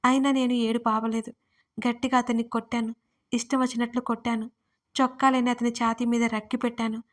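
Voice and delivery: usual speaking voice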